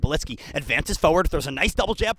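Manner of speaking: brisk fight commentary, rising energy; live play-by-play. Acted. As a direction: call the fight as it happens, building. Live martial arts play-by-play.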